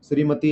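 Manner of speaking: श्रीमती with the last ती held long; teacher stretching the ती of श्रीमती; long final ti. Shown as a demonstration. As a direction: draw out the ती at the end of श्रीमती. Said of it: "ती लंबा खिंच गया".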